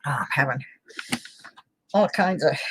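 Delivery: whispered aside. Real, not acted. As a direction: whisper it to yourself. Technical trouble, muttering aside.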